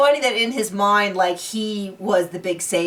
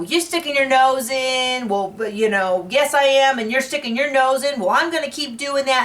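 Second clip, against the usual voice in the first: bickering; 5 semitones higher than usual. Retold or imitated. Acted quarrel between two wives.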